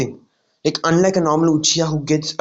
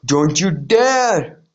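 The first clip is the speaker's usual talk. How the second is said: very slow, louder, threatening "don't you dare"; warning Naruto; 3 dB louder, much slower than usual. Retold or imitated. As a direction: stretch it out as a fierce warning. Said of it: "Naruto goes".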